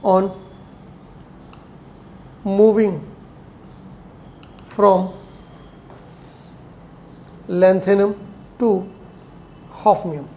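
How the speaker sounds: single words, long pauses between; unhurried word-by-word dictation; slow dictation. Real, not acted. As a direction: dictate piece by piece for writing down. Dictating a definition to write down.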